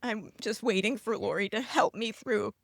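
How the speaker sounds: upset, halting with long pauses; holding it together while getting upset; very emotional. Real, not acted. Daughter telling of her dad in hospice, emotional and halting. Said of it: "this is why I'm being very emotional".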